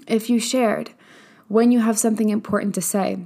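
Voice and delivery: coughing through a mouthful of oats; choking on oats. Real, not acted. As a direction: talk while choking on food. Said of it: "Sorry, I'm choking on oats".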